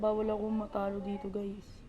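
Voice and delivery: tense whisper to himself. Real, not acted. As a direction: whisper it under your breath. Tense gaming moment, unvoiced line.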